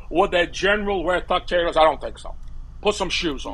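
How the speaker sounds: put-on a light touch of the dry old teacher; lightly voiced, mildly scolding; Bella impression. Teacher scolding student about his sneakers, lightly voiced. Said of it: "You do a really good impression".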